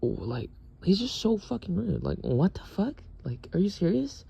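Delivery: high mocking whiny voice; mocking roommate. Mocking the rude roommate in a high whiny voice. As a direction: sneer it back in a high put-on voice. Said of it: "and I'm like".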